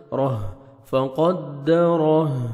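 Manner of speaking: thick "رہ" with breathed h, then slow chanted "فقدرہ"; heavy ra. Shown as a demonstration. Teacher showing heavy ra, slowly chanted "فقدرہ". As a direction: sound a full ra in "رہ" and "فقدرہ". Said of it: "را کو موٹا کر کے پڑھنا ہے".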